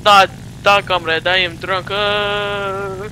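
mock drunk Russian comrade; Russian accent. Gamer playing a drunk Russian comrade, in a mock Russian accent. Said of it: "we're Russian".

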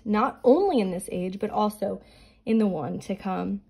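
scripture reading. Acted. Reads scripture passage aloud.

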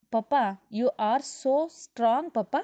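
put-on child voice. A narrator's reading. Child praising father's strength.

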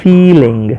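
"ફીલિંગ" with a long, weighted first syllable; stress on ફી. Shown as a demonstration. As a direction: hold the "ee" in "ફીલિંગ". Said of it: "આના ઉપર વધારે ભાર અપાશે".

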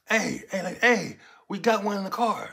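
high, loud cop call. Retold or imitated. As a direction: yell across to the other officers. Cop calling out to others.

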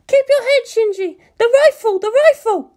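high, urgent woman's shout; Misato shouting. A narrator's reading. Misato urging Shinji over the link, high urgent shout. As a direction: bark the order over the comm.

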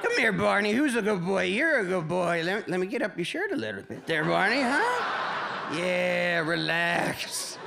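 mock creepy coaxing voice to the dog; lightly hammed-up pervert sweet talk; creepy pet talk. Owner coaxing his dog Barney, creepy sweet talk. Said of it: "I gotta feel like a fucking pervert".

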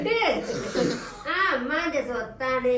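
slow, drawn-out doting coo. Real, not acted. Mother fussing over baby.

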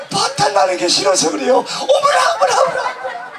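high squealing hammed-up plea; acted victim. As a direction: replay the skit as a shrieking girl. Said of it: "자, 준비 시작". (공연 요청에 다시 하는 과장된 비명 섞인 애원 연기)

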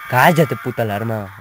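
annoyed yell at alarm. Real, not acted. Gamer shouting at an alarm in the game, annoyed. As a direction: snap at the blaring alarm.

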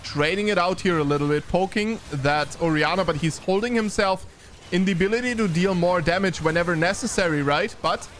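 lightly animated esports commentary; game caster keeping up with the action; live play-by-play. Real, not acted. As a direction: call the team fight as it unfolds.

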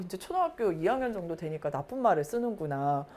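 ordinary talk, nothing marked

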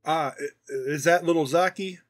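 hesitant, stumbling recognition of a grandson; surprised grandpa. Acted. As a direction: grandfather realising who is calling, halting at first.

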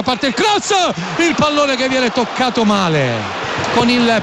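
rising urgent commentary; excited call. Real, not acted. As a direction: lift with the chance. Near miss in stoppage time.

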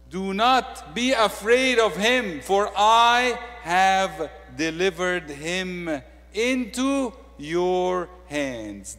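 voice of God. Acted. God reassuring his people in a big slow proclaiming voice. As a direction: proclaim it slowly like God's own word.

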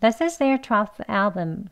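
This is their twelfth album run together, is there blurred toward a j sound, twelfth without f; fast and linked. Shown as a demonstration. Teacher showing the quick linked version of the sentence. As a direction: rattle it off joined up. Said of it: "좀 빨리 해보겠습니다".

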